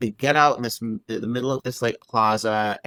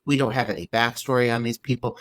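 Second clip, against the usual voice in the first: normal talking voice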